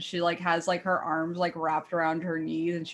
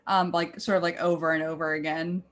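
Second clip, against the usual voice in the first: ordinary talk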